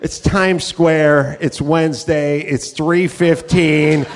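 slow, patient spelling it out; deadpan explaining. Retold or imitated. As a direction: explain it slowly to a naive friend. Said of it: "And I'm like".

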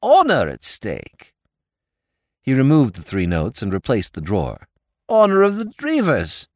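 a dim, friendly lord pleading his case; silly-ass lord. A narrator's reading. Lord Drever's voice.

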